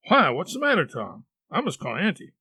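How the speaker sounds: worried brother about to fetch help; anxious, lively questioning; alarmed boy. Acted. Alarmed brother questions sick Tom.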